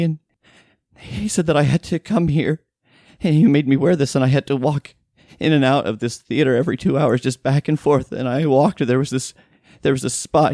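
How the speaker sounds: high, distressed voice, halting at first; terrified housekeeper. Acted. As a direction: recount the ordeal as a frightened victim.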